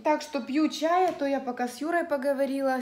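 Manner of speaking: ordinary talk, nothing marked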